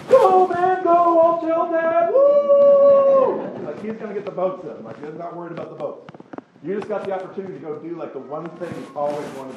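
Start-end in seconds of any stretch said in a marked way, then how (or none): 0.1-3.7 high, cheering shout to a friend; mock cheering send-off, pitched way up; excited friend. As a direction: whoop him off to go, high and loud. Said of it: "Jacob, was just like".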